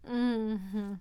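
loud, startled gasps and hums; startled moans. Acted. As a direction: react as if caught off guard.

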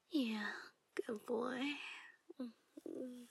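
calm post-climax murmur; afterglow whisper. Acted. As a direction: wind down, hushed and affectionate.

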